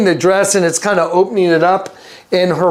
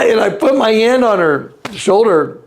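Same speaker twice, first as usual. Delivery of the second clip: usual speaking voice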